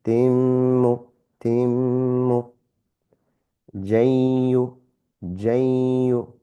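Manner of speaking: timmu and jayu with the n merged and nasal; idgham with ghunna. Shown as a demonstration. Teacher drilling examples with a slight nasal hold. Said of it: "slight nasal sound, and slight hold".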